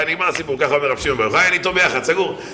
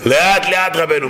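mock heckler shout; 3 semitones higher, slower than usual. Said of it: "מישהו צועק לך".

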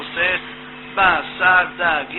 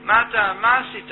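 wife scolding; 3 semitones higher than usual. Acted. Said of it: "התחילה לצעוק עליו".

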